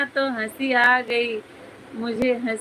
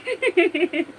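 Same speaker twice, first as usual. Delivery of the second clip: short laugh, a little higher; amused laugh; 6 semitones higher than usual. Real, not acted. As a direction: laugh at your own joke. Laughs after own joke. (अपनी बात पर हंसी)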